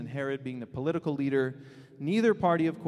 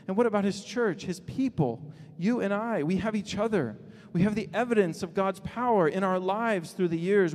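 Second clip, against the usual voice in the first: impassioned preaching; 4 semitones higher, 3 dB louder than usual. Real, not acted. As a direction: build a fervent list of gifts, punching key words.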